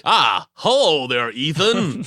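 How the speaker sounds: slow, drawn-out mock posh English accent; a lightly done posh accent impression; bad posh accent. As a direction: ham up a wobbling posh accent. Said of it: "his accent is terrible in this film".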